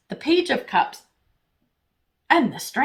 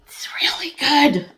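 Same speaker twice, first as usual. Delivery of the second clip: whisper; 4 semitones higher than usual. Real, not acted. Pleased with the drawn card.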